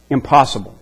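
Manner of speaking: "Impossible" set down flat and final after a pause; firm correction. Shown as a demonstration. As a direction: correct the idea with one weighty word. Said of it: "No, that's not what he says".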